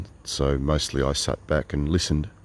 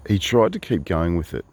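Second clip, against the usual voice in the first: normal talking voice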